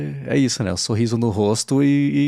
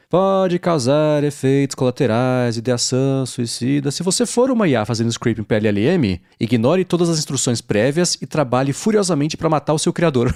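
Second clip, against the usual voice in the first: legal disclaimer; 3 semitones higher than usual. Retold or imitated. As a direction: read it like small print. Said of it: "Tem assim".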